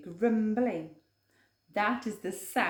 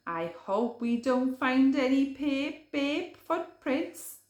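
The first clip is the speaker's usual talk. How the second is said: lightly raised worried rabbit voice; Podgy Rabbit voice; 4 semitones higher, 3 dB louder than usual. Acted. Podgy fretting to Hare about footprints, worried rabbit voice. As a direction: fret about bear footprints.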